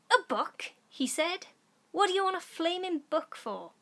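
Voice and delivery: loud, high scoffing father; indignant dad. Acted. Father mocking his daughter's request, loud and high. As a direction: scoff at the idea of a book.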